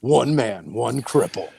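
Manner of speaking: measured, mock-dramatic voice-over; movie trailer voice. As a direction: intone each phrase like a film tagline. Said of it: "It's like the movie voice".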